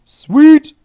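very high, loud squeal of joy; excited. Real, not acted. Gamer squealing in joy at a win. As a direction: shriek with delight.

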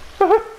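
quick high-pitched chuckle; short laugh. Real, not acted. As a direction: let out a brief, high laugh. Laughs at game dialogue.

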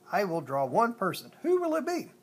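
loud announcement, rising high on the question; storybook shout. A narrator's reading. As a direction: call out a challenge to the group. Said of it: "he shouted".

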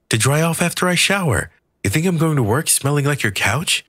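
high, indignant woman's voice; snappy high-voiced rant at John; Maria ranting. A narrator's reading. Maria rants at John over the towel, high indignant voice.

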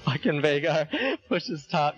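laughing. Real, not acted. Laughing at enemy Veigar.

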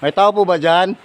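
loud high call to the house. Real, not acted. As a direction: shout it out to whoever's inside. Calling out at empty house.

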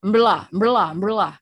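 "umbrella" squashed to mbre-LA, last syllable punched; wrongly stressed. Shown as a demonstration. Teacher mocks wrong stress for class, "umbrella" as mbre-LA. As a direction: rattle "umbrella" out with its start swallowed and LA loud. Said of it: "Itu bukan".

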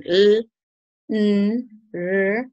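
teacher sustaining "l", "n", "r" one by one; isolated, drawn-out consonants "l", "n", "r"; voiced consonant sounds. Shown as a demonstration. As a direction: hum "l", "n", "r" as held sounds, not letter names. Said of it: "Si terminan en infinitivo con".

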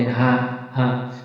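হা from the lowest part of the throat; letter articulation demo. Shown as a demonstration. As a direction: let হা come from deep in the throat. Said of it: "এভাবে এখান থেকে উচ্চারণ হবে".

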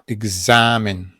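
"Egzamin" slowed, the A held long; stressed A. Shown as a demonstration. Teacher showing the accented A, slow stressed syllable. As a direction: draw out the A in "Egzamin". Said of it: "bo akcentujemy".

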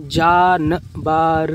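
जानबर blended, syllables drawn out; slow reading. Shown as a demonstration. Teacher showing how to read, slow reading. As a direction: join जानबर up, stretching it. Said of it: "इस तरीके से आप पढ़िए धीमे धीमे".

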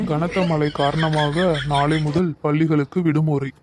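formal news bulletin delivery; newsreader. Acted. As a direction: read it out like a news anchor, measured and official. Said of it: "செய்திகள் வாசிப்பது உங்கள் ராதாகிருஷ்ணன்".

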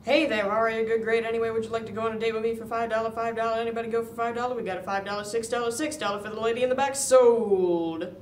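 rapid-fire auction patter; auctioneer. Acted. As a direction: rattle it off like an auctioneer. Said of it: "I talk like an auctioneer".

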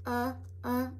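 "Uh, uh" said as the U sound; sounding out the letter. Shown as a demonstration. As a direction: model the short U sound. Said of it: "That's the sound of the letter U".

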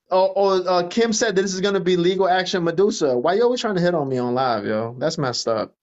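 low, whiny mocking voice; a deep lampooning impression of him; mocking Patrick. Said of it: "he even made a video and was like".

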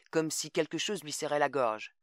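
ordinary delivery, nothing marked

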